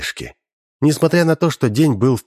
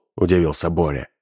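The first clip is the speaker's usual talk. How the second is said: plain reading voice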